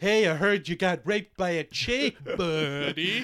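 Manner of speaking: a hint of the laid-back Encino Man buddy; Pauly Shore impression. Friend riffs a Pauly Shore cameo in a lazy surfer voice. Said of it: "Pauly Shore shows up".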